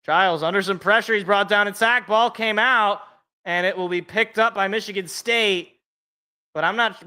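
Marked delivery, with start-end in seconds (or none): 0.1-5.1 rising, quick play-by-play call; breathless excitement. Real, not acted. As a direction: call the sack as it happens. Live play-by-play of a sack.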